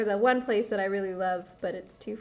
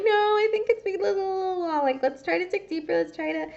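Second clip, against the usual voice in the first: therapist voice; 8 semitones higher than usual. Retold or imitated.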